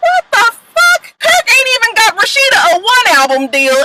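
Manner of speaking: shrieking what-the-fuck; exasperated outburst. Real, not acted. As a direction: yelp it in outrage.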